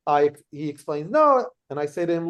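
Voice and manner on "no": retold sharp no. Heckler refusing, retold.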